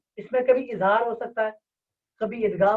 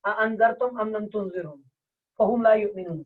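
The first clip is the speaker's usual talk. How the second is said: Quran recitation. Shown as a demonstration. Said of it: "سورہ بقرہ میں".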